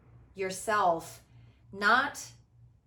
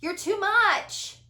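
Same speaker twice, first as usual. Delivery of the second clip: higher, louder, exasperated mock reproach; mock scolding; 9 semitones higher, 9 dB louder than usual. Host mimics critics calling her too much, loud and exasperated. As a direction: mimic a critic rolling their eyes. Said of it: "I'm so intense for them".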